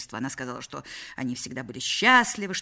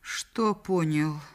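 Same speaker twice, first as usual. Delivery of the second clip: choked; much slower than usual. Acted. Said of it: "сдавленным голосом".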